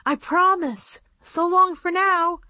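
high, pleading promise to her aunt; desperate girl doll. A narrator's reading. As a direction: call back over the shoulder while being pulled away. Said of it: "Annabelle said desperately".

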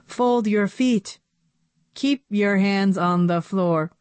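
flat computery commanding voice; robot voice. Acted. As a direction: bark it out like a machine. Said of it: "in a computery voice".

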